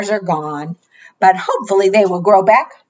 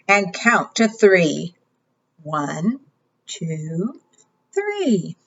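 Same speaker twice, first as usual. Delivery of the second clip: bright, sing-song storytime voice; kids show host. Acted. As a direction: read it like a preschool teacher. Reading interactive book to children.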